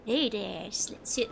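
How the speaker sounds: put-on failed cowboy accent. Streamer attempting then abandoning it, faltering cowboy accent. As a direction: drop the pitch for a badly faked cowboy. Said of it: "I can't do a cowboy accent".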